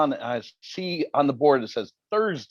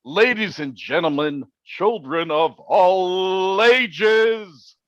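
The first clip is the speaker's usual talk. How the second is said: grand circus ringmaster call, stretched out; ringmaster announcement; 5 semitones higher, much slower than usual. Acted. Host introducing Rob like a circus ringmaster. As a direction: hype up the crowd like a big top announcer.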